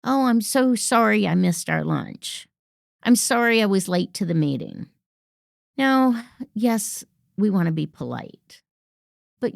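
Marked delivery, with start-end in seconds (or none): 0.0-4.9 gushing "Oh, I'm so sorry"; over-apologizing. Shown as a demonstration. Coach mimics an over-apologetic colleague, gushing. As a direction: apologize too much. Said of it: "And then apologies".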